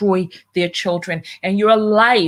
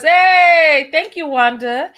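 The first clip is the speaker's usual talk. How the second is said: excited shout; 7 semitones higher, 5 dB louder, slower than usual. Real, not acted. Shouting out to a donor.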